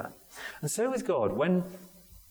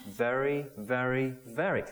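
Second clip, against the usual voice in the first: "very" three times, each given its own beat; threefold emphatic very. Shown as a demonstration. Preacher explaining triple emphasis, each "very" weighted separately. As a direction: repeat "very" as three separate stresses. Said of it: "Here it is three times".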